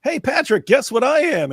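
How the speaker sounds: very high, squeaky cartoon sponge voice; high cartoon voice teasing his friend; mock cartoon voice. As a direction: chirp it like a goofy cartoon. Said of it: "and he goes".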